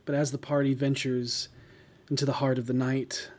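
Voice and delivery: eerie, measured scene narration; story narration. Acted. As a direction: set a haunting scene. Game master's scene setting.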